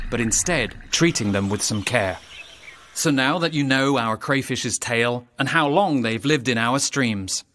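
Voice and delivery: put-on rhyming storyteller's read to young listeners; story narration. A narrator's reading. Narrator reading a rhyming crayfish tale, storytelling voice. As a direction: tell the rhyme like a children's tale.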